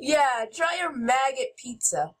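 giggling while offering the pizza; laughing through it. Real, not acted. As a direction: barely hold back the laughter. Giggling after a gross joke.

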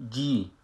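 "جی" as a long "jee" with smiling lips; stretched-lip kasra. Shown as a demonstration. Teacher shows kasra on another letter, "جی" with stretched lips. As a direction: spread the lips as if laughing on "جی".

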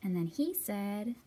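lively storybook reading; story narration. A narrator's reading. Librarian reading the story aloud to children, lively.

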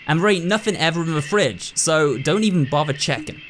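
lightly voiced folksy rural doctor, blunt; a hint of a no-nonsense backwoods doctor; gruff country doctor. Doctor lecturing the new nurse, lightly folksy and blunt.

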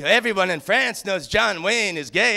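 calm mock French accent, ending on a rise. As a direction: say it smugly in a light French accent. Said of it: "She had the greatest French accent".

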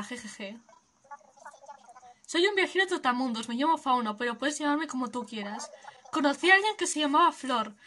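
easygoing peace-and-love drifter; hippie traveller. Acted. Streamer voicing Fauno greeting the player, mellow hippie voice.

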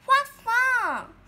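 high, loud delighted squeal; bright, high burst of joy; excited squeal. Acted. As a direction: squeal it out like a thrilled little tadpole.

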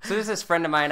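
breaking up laughing, high and loud. Real, not acted. Guest starting the story of meeting partner, cracking up. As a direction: crack up mid-sentence and restart. Cracks up telling how they met.

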